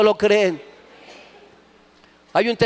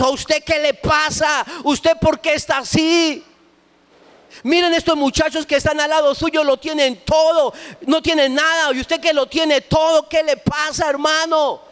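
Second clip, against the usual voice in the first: regaño de padre; 4 semitones higher than usual. Retold or imitated. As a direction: scold the son in disbelief, pitched up. Padre regaña al hijo drogado. (regaño de padre, agudo y lento)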